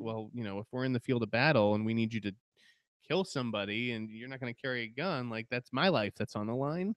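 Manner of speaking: usual speaking voice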